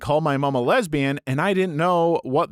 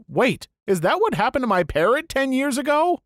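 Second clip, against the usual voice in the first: sudden surprised realization; 8 semitones higher than usual. Retold or imitated. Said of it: "and I was like".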